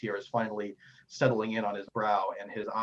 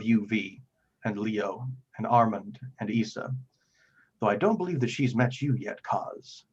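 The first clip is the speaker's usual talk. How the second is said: lightly voiced grave cleric, pausing heavily; weighty, formal plea with emphatic phrase openings; solemn Father figure; 4 dB louder than usual. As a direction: confide painful news with measured earnestness. Game master voices troubled Father Geno.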